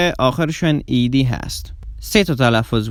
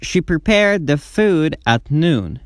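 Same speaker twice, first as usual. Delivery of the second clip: very slow, careful English sentence; slow model reading; 2 semitones higher, much slower than usual. Shown as a demonstration. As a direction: read it slowly for students to copy. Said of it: "slow model sentence". (خواندن آهسته و شمرده)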